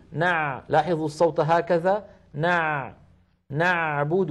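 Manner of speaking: "نعبد" with the sound continuing through the ayn; flowing ayn. Shown as a demonstration. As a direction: let the ayn in "نع" run on briefly. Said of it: "لا بد من جريان الصوت قليلا في حرف العين".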